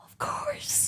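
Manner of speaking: breathy, high, soft, starstruck "Of course"; airy and very high, almost swooning. Retold or imitated. Flight attendant answers Chris Hemsworth, breathy and starstruck. Serving the celebrity eagerly.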